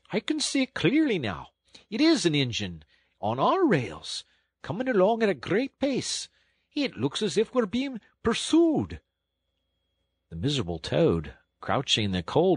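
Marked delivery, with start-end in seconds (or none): 0.1-9.0 high, carrying call back along the train; engine driver calling out. A narrator's reading. Engine driver calls back to Toad, raised call. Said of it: "Presently he called out".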